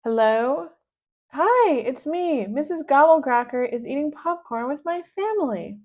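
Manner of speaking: calling for help; urgent phone call. Acted.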